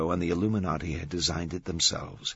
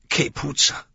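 higher, recoiling outburst; disgusted exclamation; 7 semitones higher, 4 dB louder than usual. A narrator's reading. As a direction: exclaim in Italian at a stench. Vittoria recoils from the stench.

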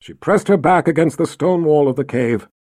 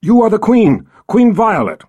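commanding queen; 6 semitones higher, 5 dB louder than usual. Acted. Violet forcing Rachel to say it.

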